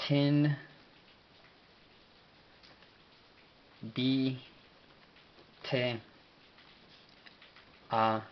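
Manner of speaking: "Ten, bi, te, a, mots" in isolated syllables. Shown as a demonstration. Teacher sounding out the prophet's Amharic name, syllable by syllable. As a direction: say each piece of "Ten, bi, te, a, mots" separately, with long pauses.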